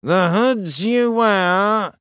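slow, even, droning priest; flat monotone voice. Acted. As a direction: intone it without any feeling. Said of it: "intoned in a flat, vaguely nasal voice".

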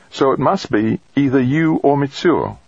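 woman colleague. Acted. Colleague working out who the troubled man is, probing. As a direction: reason it out in a lifted woman's voice. Narrator voices V J in dialogue.

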